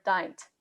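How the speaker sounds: dint as one English syllable; merged vowels. Shown as a demonstration. Tutor showing English misreading, dint as one syllable. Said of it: "we kind of merge, uh, vowels".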